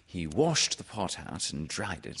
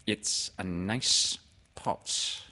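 Owl; much slower than usual. Acted. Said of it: "said Owl".

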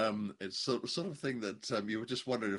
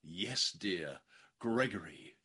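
mock gasping leading lady; much slower than usual. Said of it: "leading lady gasps".

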